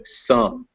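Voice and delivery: "some" picked out as the stressed syllable. Shown as a demonstration. Teacher repeats the stressed syllable for learner, emphasis on "some". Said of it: "it's some".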